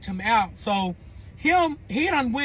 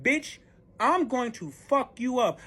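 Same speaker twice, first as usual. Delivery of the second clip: slow, higher-pitched threat; retold slow warning; angry threat; 5 semitones higher, slower than usual. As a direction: spell the threat out slowly. Her threat in the quarrel.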